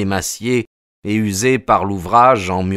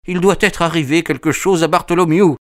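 much higher, panicky outburst; frightened cry; 9 semitones higher, 3 dB louder than usual. Acted. Thaddeus runs out to the guests, crying out in fear, much higher. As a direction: blurt it out in terror. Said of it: "cria-t-il".

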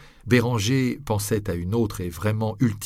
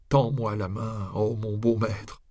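slow ghostly plea; slower than usual. A narrator's reading. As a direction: plead slowly like a ghost. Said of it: "voix sépulcrale".

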